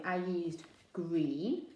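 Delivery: green drawn out slowly; slow stress on green. Shown as a demonstration. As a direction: dwell on the word green. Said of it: "help you to guess".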